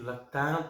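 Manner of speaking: "Loctin" with a clear final n, rising; unsure pronunciation. Real, not acted. Beer reviewer retrying the brewery's name, unsure pronunciation. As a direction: try out "Loctin" as lock-TAN, questioning. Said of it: "Might be saying that wrong".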